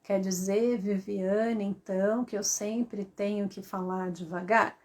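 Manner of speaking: low, soft, droning question; slow monotone. Shown as a demonstration. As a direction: drone it out evenly, word by word. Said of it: "isso é monotonia".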